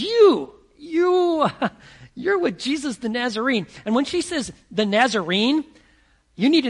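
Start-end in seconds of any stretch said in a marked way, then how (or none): 0.0-3.7 high, loud accusing call; calling him out. Acted. Servant girl calling out Peter in the courtyard, loud accusation. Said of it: "she calls him out".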